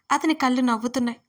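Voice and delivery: plain reading voice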